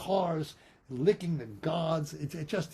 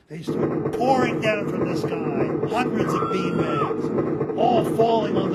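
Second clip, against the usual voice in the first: excited; 6 semitones higher, 9 dB louder than usual. A narrator's reading. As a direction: shriek it out in delight. Beanbags pour from the sky.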